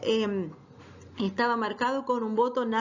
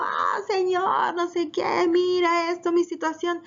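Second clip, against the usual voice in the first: raised, high wailing plea to the Lord; loud crying-out prayer; 6 semitones higher, slower than usual. Shown as a demonstration. Teacher shows how Hannah did not pray, loud pleading wail. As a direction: cry it out loud, half-mocking the loud pray-er. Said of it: "no estaba orando a gritos sueltos".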